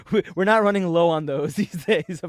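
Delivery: words broken by uneasy laughter; nervous laugh. Real, not acted. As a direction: laugh nervously mid-sentence. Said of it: "that's a nervous laugh".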